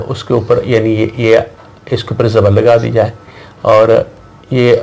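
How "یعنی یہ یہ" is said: ordinary talk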